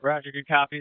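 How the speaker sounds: transmitted over a boat radio; radio handset sound, slightly muffled; marine radio. Real, not acted. Radio call during river rescue.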